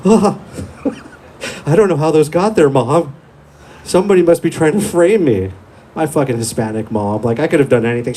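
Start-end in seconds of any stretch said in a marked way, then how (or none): 0.1-5.5 higher, laughing through a guilty excuse; nervous laughing excuse. Retold or imitated. Kid caught by mom lying through nervous laughs. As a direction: fake innocence, giggling. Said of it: "And I was like".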